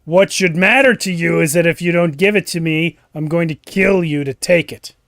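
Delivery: firm villain threat; Slug the Wizard. Acted. Wizard threatening to kill for the gem, firm villain voice. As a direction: threaten them as an evil wizard. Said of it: "appears Slug the Wizard".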